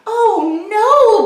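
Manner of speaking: high laughing bee voice; a giggly high little bee; buzzing bees. A narrator's reading. Bees answering the birds, high and laughing. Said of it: "buzzed the bees".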